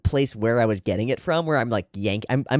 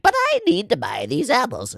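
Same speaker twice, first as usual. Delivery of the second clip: much higher, lightly put-on plea; a hint of a fussy Angela; 10 semitones higher than usual. Angela pleading with Death, high-pitched. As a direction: protest like a distracted shopper. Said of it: "she's like".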